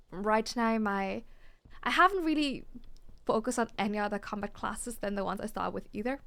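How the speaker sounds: talking through hiccups; hiccuping mid-sentence. Real, not acted. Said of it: "Sorry, I've got hiccups".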